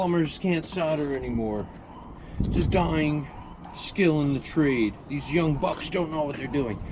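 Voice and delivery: mock grumpy old-timer voice; a hint of a grumbling veteran; grumpy old plumber. Mocking old-school plumbers' complaint.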